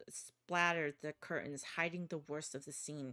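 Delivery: dark, measured horror narration; story narration. A narrator's reading. Narrator telling the player a horror scene. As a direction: read it like a grim thriller.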